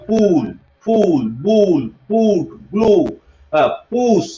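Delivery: পুল, ফুল with a rounded 'oo'; spaced list modelling পুশ with 'oo'; 'u' sound demo. Shown as a demonstration. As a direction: hold the 'oo' in ব্লু. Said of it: "উ উচ্চারণ যদি লক্ষ্য করে দেখি".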